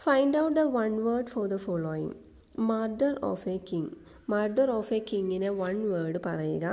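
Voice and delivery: slow, deliberate exam question read-out; slow dictation reading. Shown as a demonstration. Teacher reading a PSC question aloud slowly. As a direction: read each word slowly for the class.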